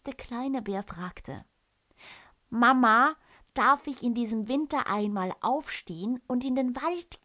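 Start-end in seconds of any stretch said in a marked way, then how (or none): 2.5-7.2 high, loud eager cub asking; a little cub pleading with mama; eager bear cub. Acted. Little bear begs his mother.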